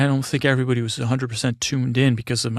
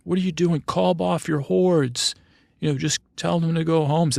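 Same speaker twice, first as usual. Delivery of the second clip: mock exasperated officials; 5 semitones higher than usual. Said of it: "and they're like".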